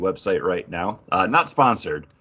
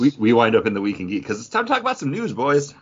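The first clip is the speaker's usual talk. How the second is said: fast, hyped host intro with a pitch jump on news; segment intro; faster than usual. Acted. Host hyping up the boys for news, fast and excited.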